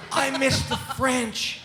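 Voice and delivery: high, slow, loud wail; mock-distraught lament. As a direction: draw it out in hammed-up misery. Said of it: "And I'm like".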